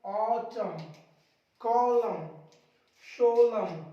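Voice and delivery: ऑटम, कॉलम, शोलम each ending on M, no N; one word at a time, closing ऑटम, कॉलम, शोलम on M; silent N. Shown as a demonstration. Teacher showing N silent after M, ऑटम, कॉलम, शोलम ending on M. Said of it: "चुप कर दो इसको".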